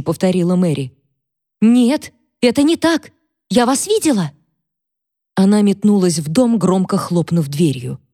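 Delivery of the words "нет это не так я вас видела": high, shaken denial; frightened insistence. Acted. Catherine, frightened, insists in a high voice that she saw Mary. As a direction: insist through fear. Maid denies Mary's words.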